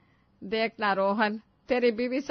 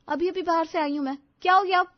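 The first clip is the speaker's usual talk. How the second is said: annoyed snap; 5 semitones higher, 4 dB louder than usual. Acted. Annoyed bride snapping.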